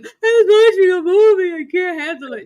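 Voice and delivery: loud, high mock wail; imitated bawling. Woman explaining movie tears to J C, mock bawling. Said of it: "like, bawling crying".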